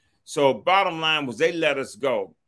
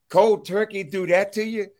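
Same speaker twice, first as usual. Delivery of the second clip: high, startled "Cold turkey do that to you?"; shocked disbelief; 8 semitones higher, 3 dB louder than usual. Retold or imitated. A naive kid shocked by a cellmate's words.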